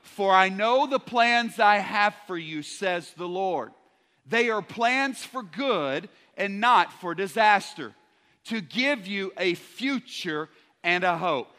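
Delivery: steady congregational recitation; reading scripture aloud. Shown as a demonstration. Preacher leading church reading the verse, steady. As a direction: read it out together, firmly. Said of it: "Let's read this out loud".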